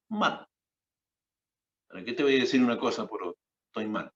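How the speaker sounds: loud, fast, pained burst starting high on "Mal"; distressed outburst. Retold or imitated. Scene: sister admitting to her brother she is not okay, loud. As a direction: let it all spill out in a rush.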